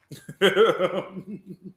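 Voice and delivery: villain laugh. Acted. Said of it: "I got a villain laugh".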